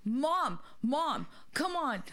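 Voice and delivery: panicked pleading. Retold or imitated. Daughter begging her mother to stop fighting, panicked. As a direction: beg mom to cooperate in a rush. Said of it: "Carolyn starts panicking".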